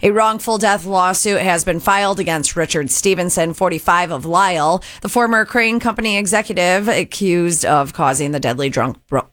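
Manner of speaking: measured local-news anchor delivery; radio news read. Acted. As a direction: newsreader voice with falling sentence ends. Reads the news update.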